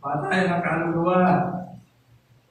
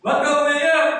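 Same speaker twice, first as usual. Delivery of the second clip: voicing God; 9 semitones higher, 7 dB louder than usual. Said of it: "Ano sabi ng Diyos kay Moses?".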